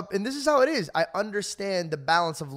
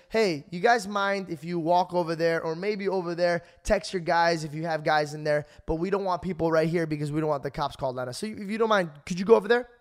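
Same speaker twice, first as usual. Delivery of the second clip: polite request. Retold or imitated. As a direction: ask nicely, like a courteous bouncer. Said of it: "literally like this".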